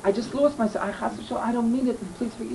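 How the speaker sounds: a touch of begging forgiveness, dropping soft; retold begging. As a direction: sage softly begs the offended man's pardon, understated. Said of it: "And he's begging".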